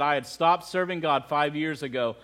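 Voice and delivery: low, hushed grief without real sobs; understated retold sobbing. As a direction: retell her tearful confession softly. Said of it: "Sobbing uncontrollably".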